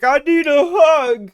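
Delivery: high, slow little cat voice; the cat begging to be held; high, drawn-out needy cat voice. Retold or imitated. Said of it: "She's like".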